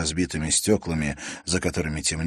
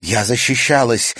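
indignant shout; 5 semitones higher, 8 dB louder than usual. A narrator's reading. Natalya protests loudly.

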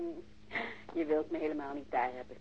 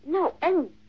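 defiant retort; 11 semitones higher, 10 dB louder than usual. Acted. Lovers quarrel on phone.

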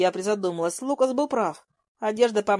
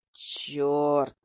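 hissing; 6 semitones lower than usual. A narrator's reading. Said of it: "прошипел Лукас".

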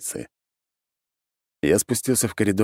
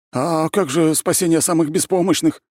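high, loud wailing protest; plaintive howl; 12 semitones higher, 4 dB louder than usual. A narrator's reading. Prisoner protests being left to last, wailing. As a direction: wail as the helpless one left behind. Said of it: "взвыл Зайцев".

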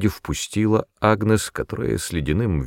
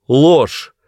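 high, loud outburst; shouted accusation; 8 semitones higher, 8 dB louder than usual. A narrator's reading. Agnes cries out at the mother in a high, loud shout. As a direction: hurl the word out as a cry. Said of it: "крикнула Агнес".

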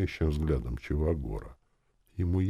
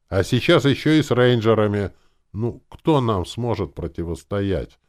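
loud, raised, boastful challenge; exclaiming; 8 semitones higher, 9 dB louder than usual. A narrator's reading. Young mage arguing nobody could resist them, exclaiming. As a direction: build the boast and cry it out. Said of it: "воскликнул я, глядя на Керри".

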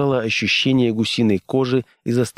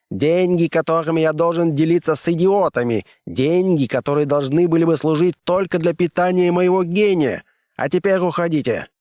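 higher, testy raised voice; irritable scientist; 7 semitones higher than usual. A narrator's reading. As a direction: sneer at the fools. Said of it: "рявкнул Оверхольц".

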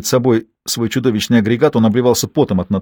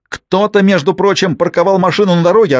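much higher, raised accusation; yelling; 8 semitones higher, 3 dB louder than usual. A narrator's reading. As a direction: bellow the complaint. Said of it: "орал сосед".

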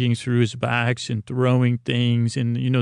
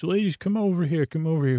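higher, quick showman's beckoning; retold calling out; 5 semitones higher, faster than usual. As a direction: call them over lightly, pitched up. Retold busker calls audience over.

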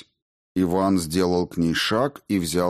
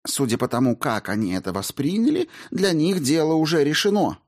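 cutting in; 7 semitones higher than usual. Acted. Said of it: "встряла Маргарита".

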